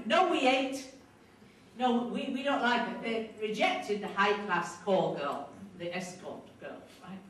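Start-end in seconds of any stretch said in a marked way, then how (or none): 0.1-3.0 higher, stubborn refusal; imitating women who won't have it; retold complaining. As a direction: push back, grumbling and defiant. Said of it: "kind of rumbling and mumbling and complaining".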